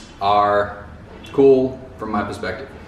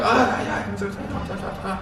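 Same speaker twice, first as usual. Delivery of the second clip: happy laughing reply; 8 semitones higher, 4 dB quieter than usual. Retold or imitated. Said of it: "they're just like".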